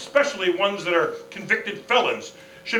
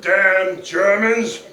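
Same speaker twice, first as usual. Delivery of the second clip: angry outburst; 5 dB louder, much slower than usual. Acted. General hears news of the enemy.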